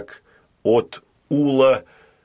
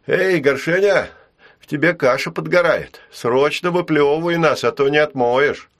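mock alarm; 6 semitones higher, 3 dB louder than usual. Ул tricks the giant cheerfully.

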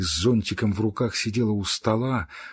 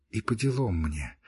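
softer, sulky first take of the phrase; low sullen mutter; 6 dB quieter than usual. Acted. Girl to her friend, softer sulky mutter. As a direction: mumble it under your breath, hurt. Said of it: "быстро заговорила Кити".

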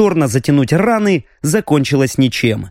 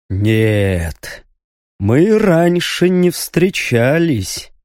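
menacing monster voice; demonic voice; much slower than usual. Acted. Demon emperor speaks.

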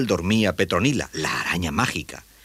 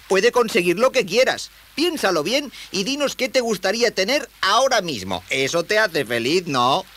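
put-on high, eager young voice; high-pitched, hopeful youngster; encouraging boy; 12 semitones higher, 3 dB louder than usual. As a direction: coax a sad friend in a boyish voice. Boy figure coaxing creature.

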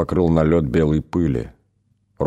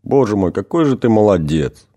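louder, higher on "какой"; overwhelmed, half-crying "какой же ты молодец"; crying out in grateful relief; tearful praise; 4 semitones higher, 4 dB louder than usual. Acted. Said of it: "заплакала Светлана".

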